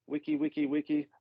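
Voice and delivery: vocal turntable scratch; wiki-wiki scratch noise; record scratch imitation. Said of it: "My, my D J-ing skills".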